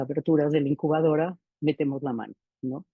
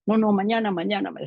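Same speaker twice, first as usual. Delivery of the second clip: louder and higher, hurried pleading refusal; urgent refusal; 5 semitones higher, 5 dB louder than usual. Retold or imitated. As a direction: push her off, anxious and loud. Madre se niega a entrar. (negativa ansiosa, más alta y fuerte)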